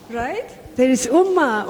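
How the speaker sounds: usual speaking voice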